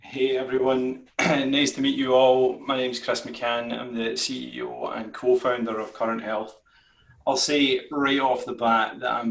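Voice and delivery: strong Scottish accent, friendly greeting; broad Scottish accent. Real, not acted. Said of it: "blessed with the strongest Scottish accent imaginable".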